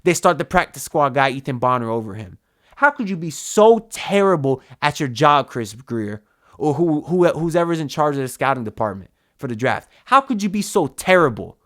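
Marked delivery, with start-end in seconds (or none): 2.8-11.6 exasperated anger. Real, not acted. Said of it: "Yeah, I'm getting mad again".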